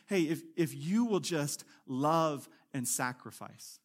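slow, low, lightly voiced prompting; voice of the Spirit. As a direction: urge gently, spacing out the words. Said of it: "you hear the Spirit saying".

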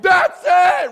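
very high, very loud triumphant yell; preacher seeing a loom, shouting in excitement; eureka shout. Retold or imitated. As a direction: shout it like a sudden discovery. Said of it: "he was like".

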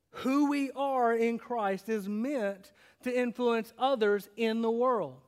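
slow, level repeat of the takeaway; slow restatement. Shown as a demonstration. Pastor repeating the main point for notes. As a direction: say it again slowly and plainly. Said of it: "Write this down".

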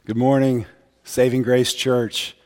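hoarse from a cold; rough voice, nearly lost. Real, not acted. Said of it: "apologizing for my voice this morning".

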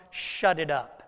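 low, curt order to the storm; a lightly voiced, stern rebuke; stern command. Jesus silencing the storm, low and curt. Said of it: "what he says to the storm?".

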